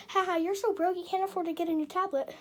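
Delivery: loud teasing jeer. Shown as a demonstration. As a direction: taunt them about being broke. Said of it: "No, say".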